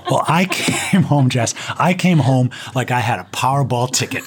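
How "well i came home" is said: ordinary talk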